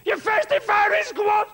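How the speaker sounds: high, shouting German officer voice; German commandant. Retold or imitated. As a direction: bark it like a pompous camp commandant. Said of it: "He says".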